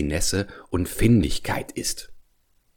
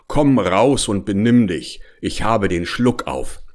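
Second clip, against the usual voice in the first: calling down. Acted. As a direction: call down into the belly. Whale calls down its throat.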